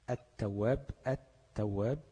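التواب as at-tawwab, no L; lam merged into ta. Shown as a demonstration. Teacher giving examples of merging, التواب with held ت. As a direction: hold the doubled ت in التواب. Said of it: "وإنما تقلب اللام لحرف".

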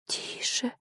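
a soft unvoiced shh-like whisper; mother hushing her crying girl in a whisper.

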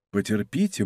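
calm him down quietly with a smile. Acted. Monk to angry d'Artagnan, soft smiling calm. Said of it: "молвил Монк с улыбкой".

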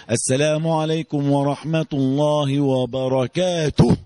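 slow, drawn-out chanted prayer closing; imitated village salaam. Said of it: "تبقى لقيت واحد بيقول ايه؟".

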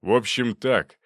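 loud, final decision; stern verdict. Acted. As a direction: hand down the sentence. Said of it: "подытожил Зубов".

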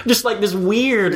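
laughing through the words. Real, not acted. Podcaster cracking up retelling the scene, laughing. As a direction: giggle out the description.

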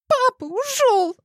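put-on a girl shrieking out the news; high, loud hysterical squeal. A narrator's reading. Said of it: "взвизгнула девушка".

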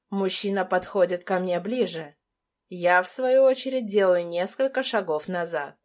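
ordinary delivery, nothing marked

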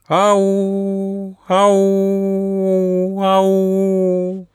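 high, loud far-off call for help; plaintive call. A narrator's reading. Hidden Auka calls out plaintively to lure the travellers. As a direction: call out from among the rocks. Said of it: "послышалось снова".

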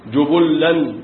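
جبلا said jubullan with doubled lam; جبلا with damma and shadda; jubullan reading. Shown as a demonstration. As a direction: say جبلا as ju-bul-lan. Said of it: "قراءة رابعة".

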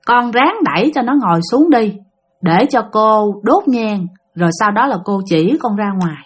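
slightly hushed, unhurried woman's instruction; gentle. Retold or imitated. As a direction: lightly imitate a very gentle voice. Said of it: "một cái giọng nói rất là nhẹ nhàng".

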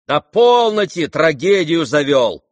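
loud, high, drawn-out rebuke; irritated shout. Acted. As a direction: cry out to cut off the melodrama. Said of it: "крикнул Ганя".

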